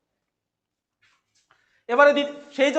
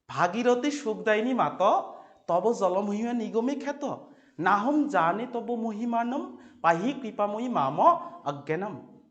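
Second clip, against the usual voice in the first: halting recitation; 5 dB quieter than usual. Shown as a demonstration. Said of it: "গানের মতো করে পড়বে না থমকিয়া থমকিয়া পড়বে".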